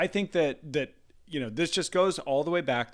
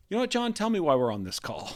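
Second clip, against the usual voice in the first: mock lazy rep; 7 semitones higher than usual. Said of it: "so much better than".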